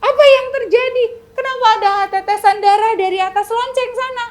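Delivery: loud, high startled cry; shocked crowd. Acted. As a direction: gasp it out in alarm. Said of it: "Wah, semuanya kaget". (seruan kaget rakyat yang keras)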